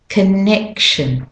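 connection with a drumbeat on NEC; stress on NEC. Shown as a demonstration. Teacher repeating the drum beat, stress on NEC in connection. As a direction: hit the middle syllable of connection. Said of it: "You can hear the drum goes dum on the neck".

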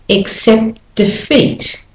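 "accept defeat" slowly, the T running into defeat; slow linking demo. Shown as a demonstration. Teacher slowing a phrase to show linking. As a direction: draw it out so the link shows. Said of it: "notice that as I go".

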